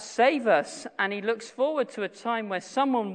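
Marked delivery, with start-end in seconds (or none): 0.0-0.9 louder cry for help; retold crying out. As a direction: call out the plea as the psalmist. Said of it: "the psalmist cries out".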